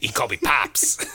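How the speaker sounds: whispered daddy line; mock creepy whisper. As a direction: breathe it creepily. Daddy bit.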